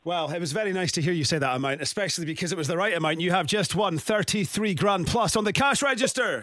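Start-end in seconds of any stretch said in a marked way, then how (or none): 3.2-6.4 big, lifted shout of the winning news; excited announcement. Real, not acted. Radio host announcing the winner, excited shout. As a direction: proclaim the win like a prize reveal.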